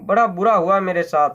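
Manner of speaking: put-on frightened child crying to her mother; a touch of tearful wailing; sobbing. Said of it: "रोने लगी".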